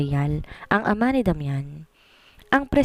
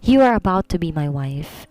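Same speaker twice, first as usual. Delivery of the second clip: malamig at direkta. A narrator's reading. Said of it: "malamig at direkta".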